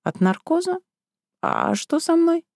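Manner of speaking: mildly surprised patient; bewildered. Acted. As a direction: ask in groggy confusion. Confused surprise.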